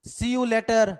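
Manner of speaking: said lovingly like a friendly goodbye; a warm, affectionate see you later; fondly. Shown as a demonstration. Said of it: "कितने प्यार से बोला". (प्यार से)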